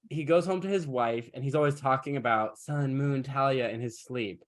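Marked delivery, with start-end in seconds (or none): none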